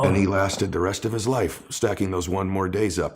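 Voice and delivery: moved to tears by his own words; real tears. Real, not acted. Son honoring his father's sobriety, choked up. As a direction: voice choking up while telling it. Tribute to late father, crying heard.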